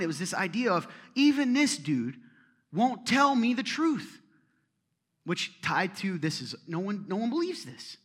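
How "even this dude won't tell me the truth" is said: raised, slow, indignant preaching; slow down and let it ring out loud; heated sermon climax, higher and louder; outraged. Real, not acted.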